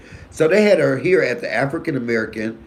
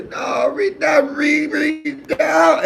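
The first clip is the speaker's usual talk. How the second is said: much higher, slow hammed-up wail; fake wailing; 3 dB louder, much slower than usual. Planning a fake faint at the funeral, hammed-up high wail. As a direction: fake grief for the cameras. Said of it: "y'all know I'm a good actor".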